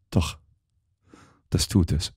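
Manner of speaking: quiet, stubborn insistence; insisting. A narrator's reading. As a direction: hold your ground softly. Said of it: "beharrte Miss Oliver". (leise, beharrlich)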